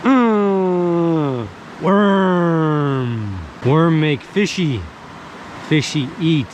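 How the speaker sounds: slow broken caveman grunt-speech; caveman talk. Pretend. Playing caveman while baiting hook.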